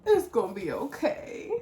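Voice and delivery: lightly voiced soothing little girl; imitating comforting daughter. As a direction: console mommy in a kid's voice. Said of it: "she'll be like".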